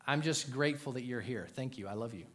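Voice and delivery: soft, low words to a wife; quietly grateful, modeled affection; tender. Shown as a demonstration.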